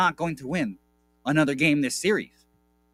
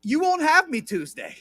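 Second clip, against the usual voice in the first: giddy gloating; 13 semitones higher, 4 dB louder than usual. Real, not acted. Gloating about Celtics win.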